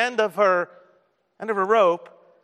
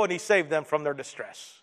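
lower, softer narration; hushed resolution; 5 semitones lower, 8 dB quieter than usual. A narrator's reading. Preacher telling of the prisoners' rescue, hushed. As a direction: bring it down gently. Soft resolution after each cry.

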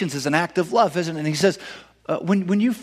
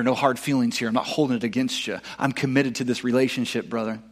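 quiet reassurance; 5 semitones lower, 5 dB quieter than usual. Retold or imitated. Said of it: "Jesus is telling Peter".

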